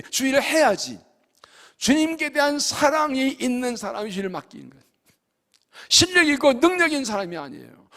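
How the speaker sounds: ordinary talk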